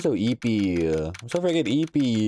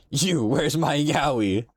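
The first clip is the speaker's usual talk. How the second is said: playful demand; 6 semitones higher, slower than usual. Real, not acted.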